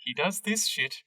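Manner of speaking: exasperated, halting apology, lightly acted; sighing apology. Harold apologising for his brother, sighing exasperation. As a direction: apologise with long weary pauses. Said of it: "Harold sighs and he goes".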